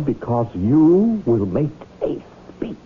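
slow conspiratorial whisper. Acted. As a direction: breathe it like a secret plan. Conspiratorial reveal of the plan.

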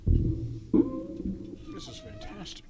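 long, drawn-out high exclamation; ecstatic. Real, not acted. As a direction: stretch it out in pure delight. Tasting food, ecstatic.

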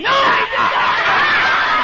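slow, laughing loud denial; angry. Acted. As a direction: drag it out, fed up.

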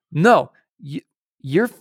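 a hint of an angry drill instructor; mock angry accusing. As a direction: mimic an irritated instructor calling out cheating. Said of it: "he's pissed off".

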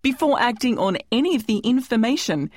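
measured, formal scripted announcement; presenter's formal disclaimer voice; disclaimer read. Acted. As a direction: read out the legal notice clearly. Host reads scripted disclaimer.

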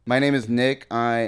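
speaking with a lisp; soft lisped s sounds. Real, not acted. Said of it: "Do you have a lisp?".

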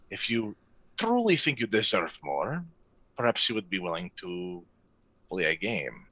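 low, measured merchant. Acted. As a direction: bargain calmly as a merchant. GM merchant NPC bargaining.

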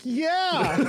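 high laughing yeah. Retold or imitated. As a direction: squeak a yes through laughter. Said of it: "you're like".

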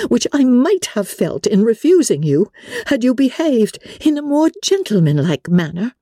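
high pitch, controlled volume, anger held in; strained composure. A narrator's reading. Elizabeth, growing angrier, refuses Darcy's declaration, trying for composure. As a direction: correct him firmly while holding anger back. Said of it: "tried to the utmost to speak with composure".

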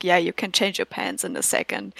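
a hint of Mouse, said low; mild Mouse impression. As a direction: toss it off low and quiet. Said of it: "he just says".

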